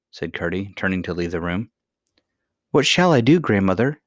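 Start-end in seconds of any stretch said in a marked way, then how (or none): 2.7-4.0 high, louder cry of distress, lightly acted; sobbed plea. A narrator's reading. Princess turning to her grandmother for help, sobbed plea. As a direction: wail it with a touch of a sob. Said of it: "sobbed the princess".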